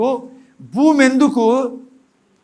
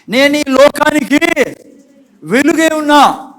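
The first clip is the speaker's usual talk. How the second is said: higher, louder confession; loud declaration; 4 semitones higher, 4 dB louder than usual. Shown as a demonstration. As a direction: proclaim it out loud. Models the declaration to speak aloud. (సంఘం ముందు పలకాల్సిన ప్రకటన, గట్టిగా)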